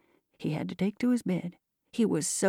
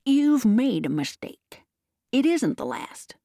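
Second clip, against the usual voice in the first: raised-pitch, emphatic protest; agitated book agent's objection; excited cry; 5 semitones higher than usual. A narrator's reading. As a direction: insist urgently, stretching the words. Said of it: "cried Higgins excitedly".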